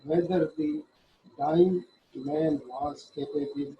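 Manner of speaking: slow, deliberate reading of legal text; slow statute reading. Shown as a demonstration. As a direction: read the act slowly, word by word, as if dictating. Reads judgment text aloud. (धीमे-धीमे क़ानून की धारा पढ़ना)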